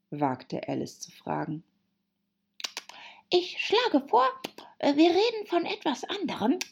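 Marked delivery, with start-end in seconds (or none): 3.3-6.6 high-pitched yawning hare; high, sleepy interruption. A narrator's reading. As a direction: talk through a yawn. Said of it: "unterbrach der Märzhase gähnend".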